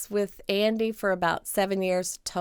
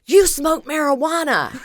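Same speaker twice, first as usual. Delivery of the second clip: higher, louder, laughing as she says it; laughing accusation; 9 semitones higher, 6 dB louder than usual. Retold or imitated. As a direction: catch her out with a laugh. Mom catches her out, laughing.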